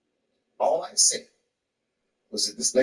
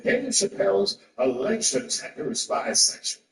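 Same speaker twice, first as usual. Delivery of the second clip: slow, higher-pitched headline reading; 5 semitones higher than usual. Retold or imitated. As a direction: read it out slowly like a headline. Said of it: "That was the headline of the article".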